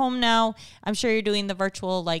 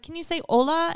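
teacher voice; 8 semitones higher, faster than usual. Retold or imitated. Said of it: "she's like".

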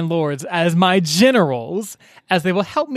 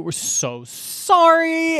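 slow apologetic; 11 semitones higher, much slower than usual. Retold or imitated. Apologising to the lords.

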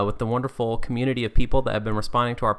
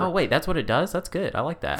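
higher-pitched feigned realization; playful fake change of heart; mock surprise; 6 semitones higher than usual. Feigned change of mind, then "Just kidding.

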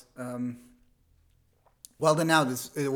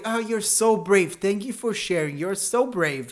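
mock gushing praise; 4 semitones higher, 5 dB louder than usual. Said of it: "just if you fart into the mic".

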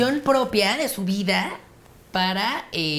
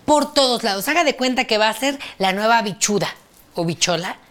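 computer voice; 2 semitones higher, 4 dB louder than usual. Pretend. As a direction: drone it out like a machine. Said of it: "usa tu voz de computadora entonces".

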